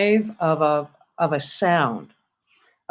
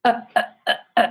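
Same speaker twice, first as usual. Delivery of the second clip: choppy breath, air cut off between each uh; stop-start; 4 semitones higher, much faster than usual. Shown as a demonstration. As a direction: stop the air after every uh. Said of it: "a stop start".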